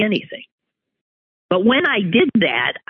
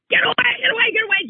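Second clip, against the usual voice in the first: 1 mock scream; much faster than usual. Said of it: "screaming at the dog".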